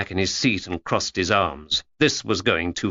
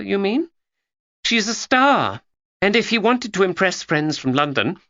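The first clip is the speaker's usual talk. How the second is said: put-on young Georgia; 6 semitones higher than usual. A narrator's reading.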